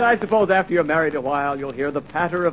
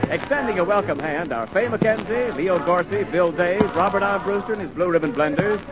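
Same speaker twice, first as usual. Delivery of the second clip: rolling cast introduction, building to the star; old-time radio announcer; 3 semitones higher than usual. Acted. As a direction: introduce the show, punching the final name.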